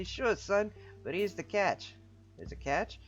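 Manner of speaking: boisterous voiced game character; jovial character voice. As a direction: greet an old pal with big cheer. Anatoly story voice.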